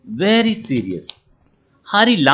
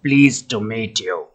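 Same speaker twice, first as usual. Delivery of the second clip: lower, hoarse creature greeting; 3 semitones lower than usual. Acted. Crab greets Hari at the seaside, hoarse voice. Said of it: "he heard a hoarse voice".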